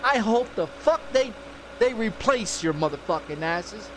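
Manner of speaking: loud, emphatic cussing-out; loud retold curse, punching the swear words; heated replay of telling them off; retold angry rant. Retelling his phone tirade.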